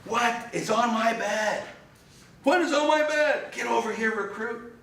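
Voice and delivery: very high, loud outraged drill-sergeant yell; officer screaming. Retold or imitated. Commanding officer inspects a perfect bed, high furious scream. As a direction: explode at the recruit over nothing. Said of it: "he started screaming as loud as he could".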